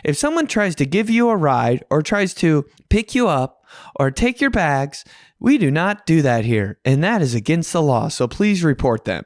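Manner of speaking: a hint of a stern PA announcer; airport PA announcement. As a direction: imitate the LAX loudspeaker warning. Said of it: "announcement on the P A".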